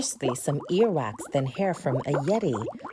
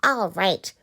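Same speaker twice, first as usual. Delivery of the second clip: snapping witch; 4 dB louder than usual. Acted. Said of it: "snapped the witch".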